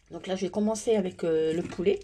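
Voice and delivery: a bit hoarse from a sore throat. Real, not acted. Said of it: "je suis un petit peu enrouée".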